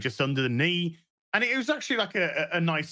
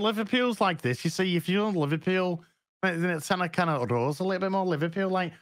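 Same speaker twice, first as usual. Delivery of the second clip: higher-pitched Scouse, rolling along; Liverpool accent; 3 semitones higher than usual. Shown as a demonstration. Explaining to co-host how Liverpool differs, higher Scouse accent. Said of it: "Now, Liverpool's different".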